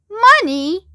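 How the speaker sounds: high, astonished exclamation; incredulous outburst; crying out. A narrator's reading. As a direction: cry it out as if the worry is absurd. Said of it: "cried Mister Wonka".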